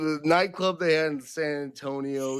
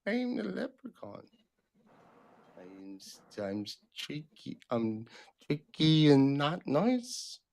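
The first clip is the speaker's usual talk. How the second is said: mock Irish leprechaun. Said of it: "Even leprechauns laugh".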